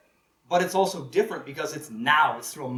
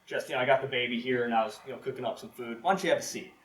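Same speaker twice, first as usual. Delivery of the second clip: sweet fake innocence; 7 dB louder than usual. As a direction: play it innocent and inviting. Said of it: "And Una's like".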